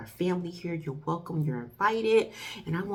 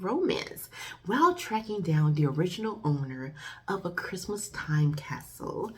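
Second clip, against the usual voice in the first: hushed movie blurb read; synopsis read. Acted. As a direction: read the plot like a trailer whisper. Reads the film synopsis.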